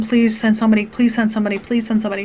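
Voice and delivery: repeated urgent plea, easing off as it goes; begging. Retold or imitated. Mother to emergency dispatcher, mildly acted begging. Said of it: "I'm begging with them".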